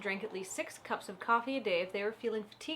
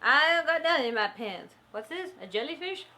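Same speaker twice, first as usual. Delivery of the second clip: protesting suspect; 3 semitones higher, 5 dB louder than usual. Acted. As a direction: play innocent with the officer, loudly at first. Acting a suspect caught by officer.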